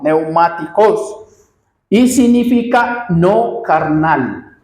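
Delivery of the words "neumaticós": slow "neumáticos", ending on a stressed -CÓS; stress on last syllable. Shown as a demonstration. Preacher showing the congregation a Greek word, "neumáticos" stressed on the final -cós. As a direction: stretch "neumáticos" out, accenting the last O. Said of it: "en la última O".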